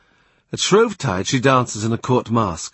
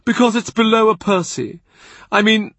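higher, louder imperious churchman; angry Cardinal; 11 semitones higher, 4 dB louder than usual. A narrator's reading. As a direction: pounce on every excuse, rising in anger. Cardinal lecturing Boleyn.

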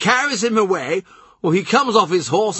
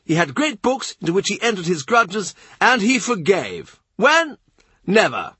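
much higher, hectoring and insistent; Norfolk demanding; 9 semitones higher than usual. A narrator's reading. Norfolk lecturing the courtiers on succession, demanding and high. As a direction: hammer each question at them. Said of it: "Norfolk demands".

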